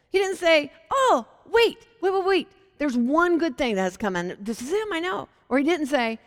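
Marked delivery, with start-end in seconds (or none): 0.9-5.3 flustered backpedal. Pretend. Philip hurriedly defends Nazareth to Nathanael, high and flustered.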